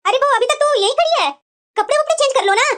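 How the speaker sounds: brisk summons. Acted. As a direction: call out to hurry her up. Mother-in-law hurries the bride along.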